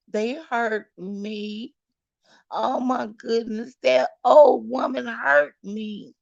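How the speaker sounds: outraged wail of pain; indignant outcry. Real, not acted. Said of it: "complaining of the hurt".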